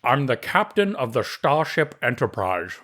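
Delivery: thick Scottish brogue, Connery style; Scottish accent. Retold or imitated. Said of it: "with a thick Scottish accent".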